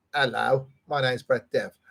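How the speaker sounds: put-on ordinary voice with Essex accent. Imitating an acquaintance introducing himself: Brett Dev impression with Essex accent. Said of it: "he speaks like Michael Caine".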